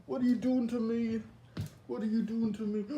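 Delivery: frightened plea. Acted. Being captured by killer.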